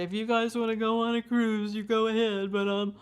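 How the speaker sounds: lightly voiced mother close to tears; imitating mom near tears. Mother refusing the family cruise, mildly tearful and pleading. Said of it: "she would almost get into tears and say".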